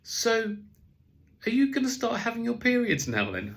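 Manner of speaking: put-on high, loud little girl asking innocently; child's voice. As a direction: ask it like a curious seven-year-old. Daughter's question in a toilet.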